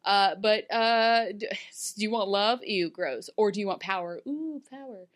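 playful king voice. Retold or imitated. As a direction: tease her with the choice like a smug king. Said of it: "he's just like".

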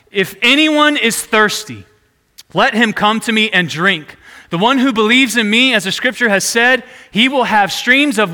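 retold shout. Preacher quoting Jesus shouting to the festival crowd, mild retold shout. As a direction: proclaim it, voice lifted, short of yelling. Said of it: "he shouts this".

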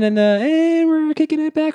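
slow-motion tape. Pretend. Pretending to rewind.

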